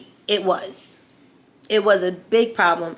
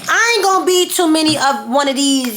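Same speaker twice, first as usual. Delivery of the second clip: retold angry threat; 7 semitones higher than usual. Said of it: "So I'm like".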